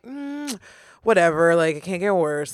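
noncommittal hum, then dismissive; apathetic shrug. Acted. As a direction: act like you have given up caring. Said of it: "completely apathetic".

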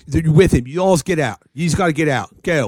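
lightly voiced Philly bouncer; Philly accent. Bouncer clearing out the whole group, Philly accent. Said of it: "Yeah, Philly accent".

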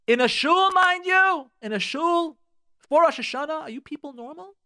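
loud, high exasperated exclaim; indignant outburst. Real, not acted. To listeners about shul insults, indignant loud outrage. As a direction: call out the absurdity, outraged.

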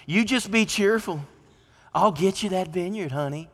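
Jezebel soothing. Acted. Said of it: "That's what she says".

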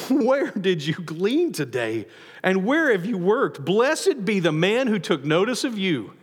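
slow, teasing, with a chuckle; a knowing mother-in-law who sees right through her; sly, laughing questions; knowing and amused. Shown as a demonstration. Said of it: "Naomi's going".

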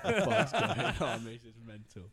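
high, loud, laughing incredulity; retold disbelief. Player walking into co-op with cricketer, loud laughing disbelief. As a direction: burst out in amused disbelief.

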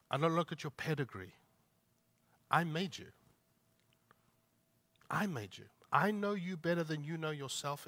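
God quietly affirming Gideon's worth; tender God voice. Retold or imitated. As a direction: speak it gently as a loving father.

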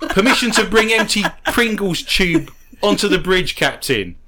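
laughing, loud mock-formal request to the captain; half-laughing, ham up a starship officer's request; mock crew officer. Asking the captain for a Pringles tube, laughing mock officer.

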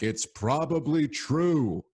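drawn-out, high-pitched heckle; imitated yelled heckle, slow and high; heckler's yell. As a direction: stretch it out like a heckler calling from the crowd. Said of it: "then he yells out".

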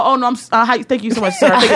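mock-sweet, hurried politeness; overly nice. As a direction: imitate someone being extra polite to staff. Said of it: "I get really nice".

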